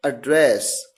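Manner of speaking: एड्रेस with a weak first vowel and stress on DRESS, ad-DRESS; verb pronunciation. Shown as a demonstration. Teacher giving the verb form एड्रेस: second-syllable stress. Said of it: "तो इसे pronounce करेंगे".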